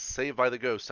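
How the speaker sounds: gleeful retold cheer; retold excited relief. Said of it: "and I was like, Yes".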